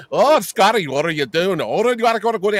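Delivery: put-on a light Yiddish grandma accent, fussing at Scotty; lightly mock the Yiddish grandma accent. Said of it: "like she's the Yiddish grandma".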